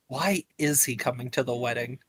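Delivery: soft, low aside, lightly whispered; low confidential murmur; hushed whisper. Acted. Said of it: "November does whisper to Lydian".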